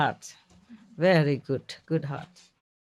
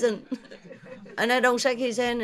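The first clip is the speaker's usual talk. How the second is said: ordinary delivery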